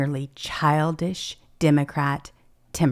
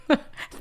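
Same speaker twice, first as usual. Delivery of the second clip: brief laugh at own joke; short chuckle; 3 dB quieter than usual. Real, not acted. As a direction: let out a quick little chuckle.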